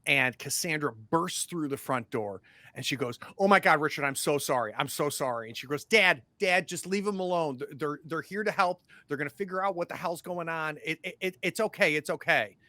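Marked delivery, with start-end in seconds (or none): 3.4-12.5 pleading daughter. Acted. Daughter pleading with her dad.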